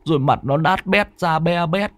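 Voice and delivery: put-on high, frightened voice of a shaken young man. A narrator's reading. Mạnh tells Tuất about the ghost girl, frightened high voice. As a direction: tell the ghost encounter trembling with fear.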